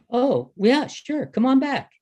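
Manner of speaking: high, lilting imitated invitation; breezy retold agreement, pitched well up; easygoing welcome. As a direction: imitate an obliging old friend saying yes. Old president welcomes him back.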